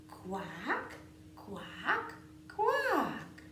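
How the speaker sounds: duck quacking. Pretend. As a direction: quack like a playful duckling. Duck refrain.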